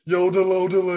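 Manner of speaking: half-remembered cartoon yodel; Patrick Starr. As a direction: attempt a sing-song character yodel. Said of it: "there was a Patrick Starr impression I could do".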